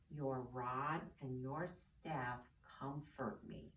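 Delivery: reverent reading, slowing at the end; calm, unhurried psalm reading; slow scripture reading. Acted. Teacher reads the next psalm line to children, slow and reverent. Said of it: "Here's another line".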